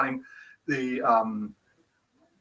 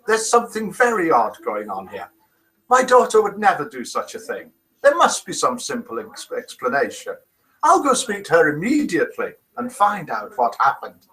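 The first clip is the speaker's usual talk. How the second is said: attempted Irish accent. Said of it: "please don't try accents".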